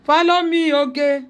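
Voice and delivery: high, loud coaxing call; pet-talk voice. Real, not acted. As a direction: lure the dog along sweetly. Coaxing dog to follow.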